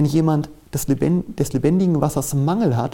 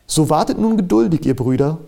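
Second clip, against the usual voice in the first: eindringliches Schriftzitat; 3 semitones higher, 4 dB louder than usual. Real, not acted. Feierlich vorgelesenes Bibelwort.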